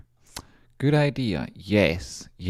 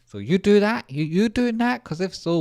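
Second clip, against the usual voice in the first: much higher, eager disbelieving squeal; excited squeak; 13 semitones higher, 3 dB louder than usual. Real, not acted. Streamer asking viewers if they can make it, excited high squeal. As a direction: squeal it like you can't believe your luck. Squeals at imagined syringe makers.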